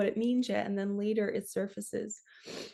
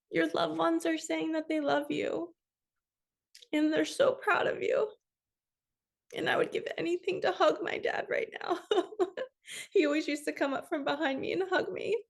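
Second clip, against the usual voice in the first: higher, tearful voice breaking with emotion; crying; 7 semitones higher than usual. Real, not acted. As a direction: speak through real tears about her dad. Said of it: "I'm totally gonna cry".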